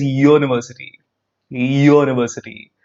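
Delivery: "university" begun with a clear "yoo"; consonant Y onset. Shown as a demonstration. Teacher showing the sound versus spelling, "university" with a Y onset. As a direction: lean on the Y sound opening "university". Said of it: "but the sound is".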